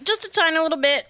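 mock understatement. Echoing the mock innocence.

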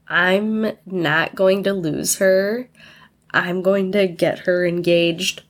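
talking through a yawn. Real, not acted. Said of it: "I keep yawning too".

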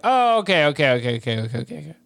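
mock flurry of okays, fading away; hurried okays. Characters reacting to the two-part monster, hurried mock agreement. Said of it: "So they're like".

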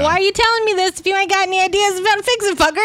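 playful impression of an annoyed guy hearing about aliens; mock exasperated rant. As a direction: rattle it off like you're sick of this. Imitating an exasperated Frank.

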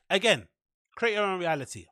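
hiccuping mid-phrase; words broken by hiccups. Real, not acted. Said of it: "'cause I'm hiccuping too much".

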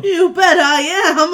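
loud, slow showman boast; kids party magician. Acted. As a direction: announce yourself like a party magician. Jim greets parents as magician.

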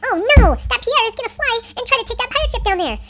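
high, loud dismay; alarmed cry. A narrator's reading. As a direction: raise the alarm to your crew. Crew alarmed at villain's attack.

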